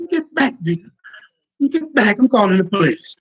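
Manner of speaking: high alarmed get back; mock scared white girl. White girl voiced rejecting him.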